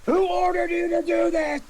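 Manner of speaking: high, pressing interrogation; accusing demand. Acted. To Clevis amid the wreckage, demanding. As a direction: demand a name from him.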